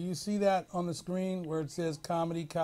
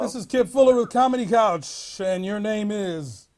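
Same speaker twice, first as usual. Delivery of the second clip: raised, projected call-in show greeting; on-air host greeting; 8 dB louder than usual. Real, not acted. Host picks up the next caller on air, projected greeting. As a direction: announce the show loudly, then hand over.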